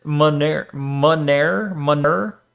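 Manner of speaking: manure tried as muh-NAIR, then muh-NUR; trying manure on for size, muh-NAIR to muh-NUR; alternative pronunciation. Shown as a demonstration. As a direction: slowly sound out manure without the oo: muh-NAIR, muh-NER. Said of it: "many pronounce it".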